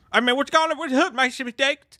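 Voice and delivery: high, garbled redneck mumble; barely intelligible mock Southern redneck accent; extreme redneck accent. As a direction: imitate a mechanic with a thick redneck accent. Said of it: "an extreme redneck accent".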